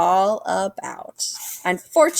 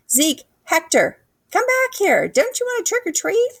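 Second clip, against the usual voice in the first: much higher, calling across the lawn; 14 semitones higher than usual. A narrator's reading. Leon calling the boys back, high call. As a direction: shout them back from afar. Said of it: "Leon called to us".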